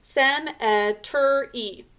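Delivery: Cemetery drawn out slowly, each syllable sounded, sem-eh-ter-ee; slow Cemetery, sound every vowel as it is spelled; Cemetery spoken as it is spelled, not as it is usually said; spelling pronunciation. Shown as a demonstration. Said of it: "I was saying it the way we pronounce it".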